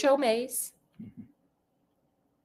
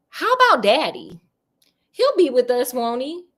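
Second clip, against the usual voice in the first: higher-pitched worried question; anxious pleading; 3 semitones higher than usual. A narrator's reading. Heather asks the ghost about Daddy, anxious and pleading. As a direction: ask anxiously, hoping for a yes.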